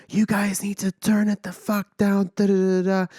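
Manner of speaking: a hint of the furious man upstairs; mock angry neighbor. Quoting the neighbor at the door, a mild mock scream.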